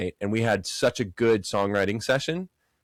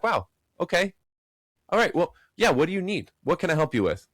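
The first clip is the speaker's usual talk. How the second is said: mock eager surprise; 7 semitones higher than usual. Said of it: "they're like".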